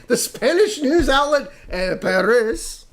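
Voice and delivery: El País drawn out slowly and high; mock pronunciation. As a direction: say El País with an extra R, questioning. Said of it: "Okay, wait a minute".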